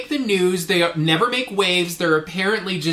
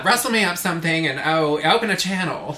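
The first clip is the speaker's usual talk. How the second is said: lightly voiced actress as starship captain; Katharine Hepburn. Shown as a demonstration. Podcaster replacing Voyager dialogue, lightly as Katharine Hepburn. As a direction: slip briefly into a film-star impression. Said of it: "a Katharine Hepburn impression".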